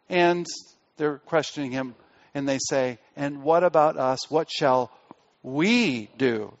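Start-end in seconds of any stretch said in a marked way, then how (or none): 3.2-6.5 WE set apart after a pause; pause, then lean on "we"; stress on WE. Retold or imitated. Preacher reading the soldiers' question, stress on WE. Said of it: "there's actually emphasis here".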